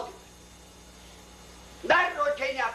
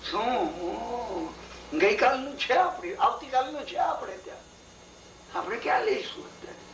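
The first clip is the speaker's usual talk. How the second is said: lightly voiced priest's wife. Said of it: "ભટાણીએ કહ્યું".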